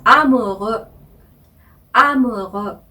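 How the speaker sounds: 아무르 twice, slowly, French R and rounded vowel; French pronunciation. Shown as a demonstration. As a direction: repeat the French amoureux. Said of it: "그죠".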